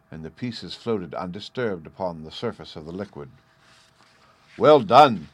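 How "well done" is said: loud, hearty burst of praise; delighted cry. A narrator's reading. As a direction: cry it out in delight, much louder. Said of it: "cried the delighted smith".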